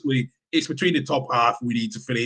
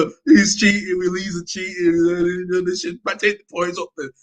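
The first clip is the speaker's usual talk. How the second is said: higher-pitched mimicry of moaning critics; mock whining complaint; 4 semitones higher than usual. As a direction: imitate crybabies grumbling about cheating. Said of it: "England was crying".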